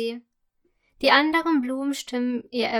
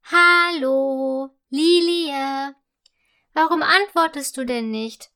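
raised voice demanding an answer; impatient call; 2 semitones higher, 5 dB louder than usual. A narrator's reading. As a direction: call out impatiently, stretching the name. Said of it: "ruft der Krokus ungeduldig".

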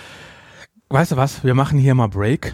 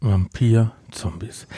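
ungläubig; 3 semitones lower, much slower than usual. Real, not acted. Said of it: "diese Begrifflichkeit hat mich kirre gemacht".

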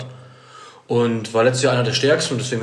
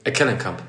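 Eckelenkamp with the stress moved off the usual syllable; 4 semitones lower than usual. Shown as a demonstration. Correcting co-host on a player's name, stress moved. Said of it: "Die Betonung woanders".

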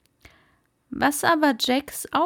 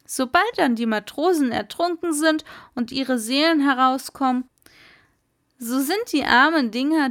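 put-on boastful old merman. Merman Kumara boasting to Jack about the soul cages, lightly voiced. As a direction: cheerfully explain something dreadful.

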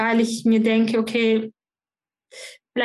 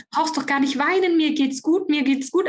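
higher-pitched quoted reassurance; retold reassurance; 5 semitones higher than usual. Boss tells crying employee he is fine, retold reassurance. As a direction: lift the voice, as if soothing someone.

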